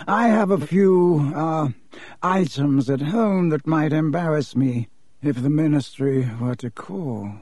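slow, cool and guarded; measured aristocratic reserve; haughty Malfoy. Acted. Malfoy hints at embarrassing items, slow and guarded.

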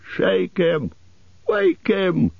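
high-pitched, contained acted shout; high, urgent elf cries; impatient shout. A narrator's reading. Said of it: "shouted the others impatiently".

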